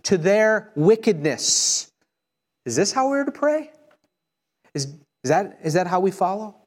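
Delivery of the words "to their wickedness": fervent imprecation. Acted. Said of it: "David says".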